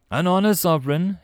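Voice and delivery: honored to serve, lightly pleased; happy reply. A narrator's reading. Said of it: "it replied happily".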